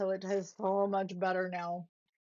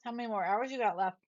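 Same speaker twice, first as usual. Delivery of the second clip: chewing while talking; mouth full; 6 dB louder than usual. Real, not acted. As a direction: talk through a mouthful of snack. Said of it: "can you hear me chewing".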